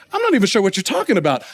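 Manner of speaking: quick, offhand deflection; playing dumb. Peter deflects the servant girl's question, playing dumb. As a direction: lightly feign not understanding and brush it off. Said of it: "he just kind of plays dumb".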